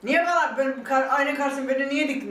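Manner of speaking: mild retold shout at the doctor for standing her before the mirror. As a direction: throw the question at him, upset. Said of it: "Doktora bağırıyorum".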